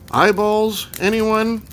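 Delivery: high, loud hawker-style call. A narrator's reading. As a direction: call it out to anyone in earshot. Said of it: "came a call".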